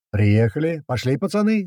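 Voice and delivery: rousing yell climbing high; rally the lads to get out; yelled command. A narrator's reading. Driver to the lads on arrival, yelling them out. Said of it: "заорал Крот".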